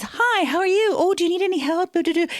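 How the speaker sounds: high, bright, overly helpful voice; eager office guy. Retold or imitated.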